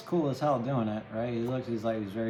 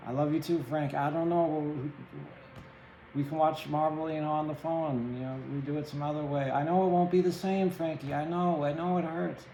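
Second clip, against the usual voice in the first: raised, pleading voice breaking the news gently; pained goodbye; 4 semitones higher than usual. Acted. Telling friend Frankie he's moving away, pained and pleading. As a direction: soothe a friend you're leaving behind, voice up and straining. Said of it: "that's this kind of pain".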